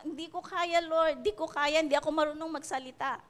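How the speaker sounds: mock whiny refusal. Moses protesting to the Lord that he can't speak. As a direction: whimper out the excuse quickly.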